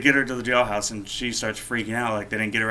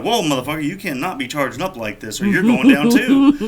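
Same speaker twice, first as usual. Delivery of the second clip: retold officer yelling; 5 semitones higher, 6 dB louder than usual.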